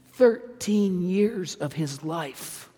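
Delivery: Thirteen years of his life drawn out very slowly; slow and measured. Shown as a demonstration. Preacher lingers over Joseph's lost years, very slow. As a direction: let each word of Thirteen years of his life hang heavily. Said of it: "Think about it".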